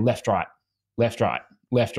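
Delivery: left, right said in a lopsided beat, long then short; demonstrating a split stroke tempo; uneven rhythm. Shown as a demonstration. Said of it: "so it's more just like".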